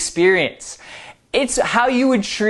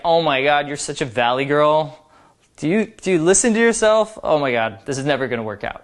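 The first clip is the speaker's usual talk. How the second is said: playful mock valley girl, quick and breezy; 3 semitones lower, faster than usual. Shown as a demonstration. Teasing a girl who says like a lot, playful mock valley girl. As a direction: tease her as a ditzy valley girl. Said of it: "It should be like".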